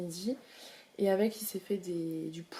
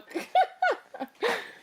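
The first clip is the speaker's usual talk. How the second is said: high giggle; 14 semitones higher than usual. Real, not acted. Laughing at baby.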